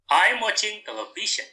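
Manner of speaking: "I'm watching television" starts high and falls away; falling intonation. Shown as a demonstration. Teacher models a positive sentence for students, falling intonation. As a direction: let the pitch drop towards the end of "television". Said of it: "the intonation is falling".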